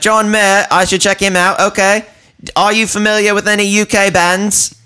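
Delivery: high, polite awkward stranger impression; high mimic voice. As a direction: pipe it up like a socially awkward fan. Mimicking the odd guy.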